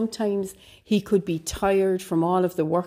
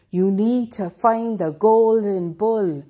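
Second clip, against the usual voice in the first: mysterious voice; 3 semitones higher, 4 dB louder than usual. Acted. Mysterious voice speaks to hero.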